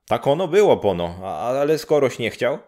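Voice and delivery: put-on a matter-of-fact old neighbour.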